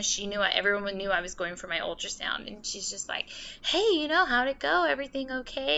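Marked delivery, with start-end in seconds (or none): 3.6-5.8 lightly voiced mom, higher; a hint of a hopeful mother asking; imitating mom's question. Mom asking how the ultrasound went, mild higher imitation.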